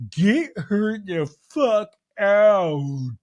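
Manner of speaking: hammed-up grave indignation, stretched hugely at the end; Meredith impression. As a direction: draw the words out like an affronted diva. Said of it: "Meredith goes".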